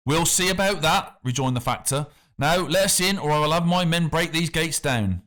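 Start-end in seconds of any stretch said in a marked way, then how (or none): 0.1-1.2 lightly voiced smug official; a smooth, superior official waving people off; the factor. A narrator's reading. The factor sends the crowd away, lightly voiced and smug. 2.4-5.2 lightly voiced smug official; a smooth, superior official waving people off; the factor. A narrator's reading. The factor sends the crowd away, lightly voiced and smug. Factor threatens to break gates.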